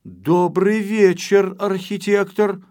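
high, slow surprised call; surprised shout. Acted. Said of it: "закричал".

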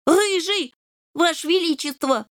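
a kitten bowing politely; kitten answering. A narrator's reading. Kitten answers the king with a bow, high voice.

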